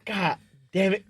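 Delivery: hushed curse; under the breath; whispering. Real, not acted. Whispered aside after laugh.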